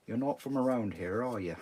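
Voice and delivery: a badly done Norfolk accent, lightly put on; mock the locals in a clumsy Norfolk accent; terrible local accent. Imitating Norfolk locals questioning him, in a half-hearted Norfolk accent. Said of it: "That's a terrible accent".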